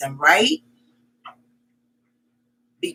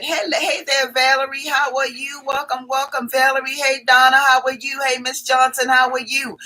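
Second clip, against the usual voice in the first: rattled off without a pause for air; breathless run of greetings, higher than usual; all in one breath; 4 semitones higher than usual. Real, not acted. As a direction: greet everyone in a single breath, running the names together. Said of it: "I said that in one breath".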